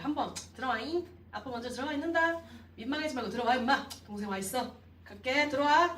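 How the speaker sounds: brisk, careless coaxing; offhand invitation. Shown as a demonstration. Father tossing a quick invite at his son, offhand. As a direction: toss the invite off and walk away. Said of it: "이게 아니라".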